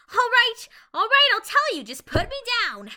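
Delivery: high, loud frantic pleading. Acted. Starlight shaken by Discord, giving in with loud pleading. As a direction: beg to be put down, giving in.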